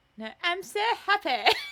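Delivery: shrill, very high, very loud London accent attempt. Trying out a woman's voice, in an attempted london accent. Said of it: "It's not right".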